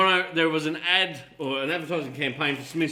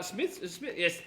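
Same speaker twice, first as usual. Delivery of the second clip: drawn-out ad name; 8 semitones higher, 5 dB quieter, much slower than usual. Pretend. Drawing out the chip ad name.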